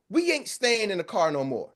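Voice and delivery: ordinary talk, nothing marked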